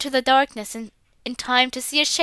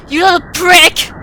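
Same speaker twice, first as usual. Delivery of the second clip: furious threat; 5 semitones higher, 9 dB louder than usual. Acted. Father threatens the boy through the door, enraged.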